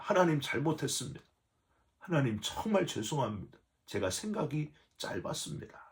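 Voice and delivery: soft, contrite plea to God; kneeling, whisper your sorry; humbled apology. Retold or imitated. Pastor on his knees apologizing to God, softly contrite. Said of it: "무릎을 꿇었습니다".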